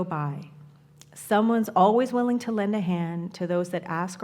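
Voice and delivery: measured, phrase-by-phrase poem recital; poem reading. Acted. Speaker reads Bonnie's poem to the congregation, measured poem reading. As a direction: read the poem aloud, pausing after each line.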